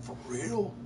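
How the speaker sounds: a barber lighting up at a mohawk order; excited. Retold or imitated. Barber asking about the mohawk, mildly excited. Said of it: "He's excited".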